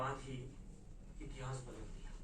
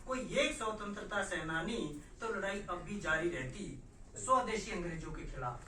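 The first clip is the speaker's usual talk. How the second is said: declaimed verse settling at the line's end; poetry recital; 4 semitones higher, 6 dB louder than usual. Acted. Poet invoking a freedom fighter against native oppressors, declaimed verse. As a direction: recite it as a stirring what-if. Recites own protest poem.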